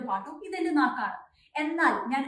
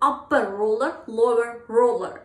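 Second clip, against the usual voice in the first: smooth and linked; 6 dB louder, much slower than usual. Shown as a demonstration. Teacher showing the right flowing way to say the twister. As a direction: run the words together smoothly. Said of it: "Instead, you have to try this way".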